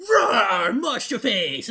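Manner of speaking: loud hammed-up roar into the words; mock roar. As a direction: roar it like a cartoon brute, laughing. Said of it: "look at them and be like".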